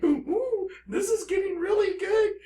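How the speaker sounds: thrilled squeal over the story; excited. Real, not acted. Telling viewers about the notice, gleeful shout. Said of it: "I'm very excited".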